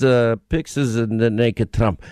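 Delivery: put-on low, slow Russian-accented answer; deep Russian accent, matter-of-fact. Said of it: "your Russian accent".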